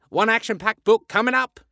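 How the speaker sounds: high, loud, eager call; keen announcement. A narrator's reading. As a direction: call out the order with gusto. Terry takes the order with gusto.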